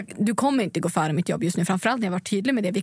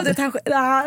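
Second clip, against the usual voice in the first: ordinary delivery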